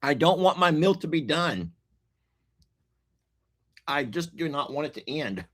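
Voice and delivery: whiny plea that fades to a murmur; pleading protest. Retold or imitated. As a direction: beg the meal not to end, winding down. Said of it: "and I'm like".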